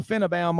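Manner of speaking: short "fin" and an added "uh" in Finebaum; mispronounced Finebaum. Retold or imitated. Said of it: "Did you take any English classes".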